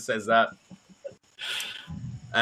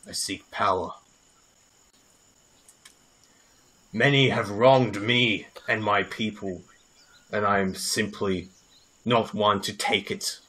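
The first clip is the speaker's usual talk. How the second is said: grim avenger; 3 semitones lower than usual. Acted. Kola telling the party why he's here, low grim vow. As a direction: brood over your vengeance. Kola's grim menacing answer.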